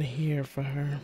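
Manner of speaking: unhurried, a touch low; slightly low. Shown as a demonstration. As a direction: settle gently into the character's register. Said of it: "I think I have to be".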